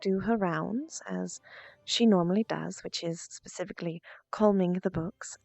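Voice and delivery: put-on calm, seductive posh English accent; Shantara posh English accent. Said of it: "somewhat posh English".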